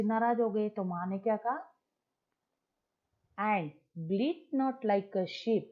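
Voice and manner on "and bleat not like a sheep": slow, drawn-out recital again in a plain tone; poem recitation. Shown as a demonstration. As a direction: stretch each word of the line slowly. (धीमा कविता पाठ)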